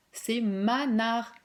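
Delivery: Manar said very slowly as the answer; slow reveal. Shown as a demonstration. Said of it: "J'ai pas lu Manar".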